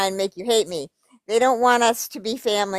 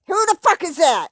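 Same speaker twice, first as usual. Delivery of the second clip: sudden high, louder what-the; incredulous outburst; 8 semitones higher, 4 dB louder than usual. Real, not acted. Reacting to a name in the email, incredulous. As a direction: cut in with disbelief at the name.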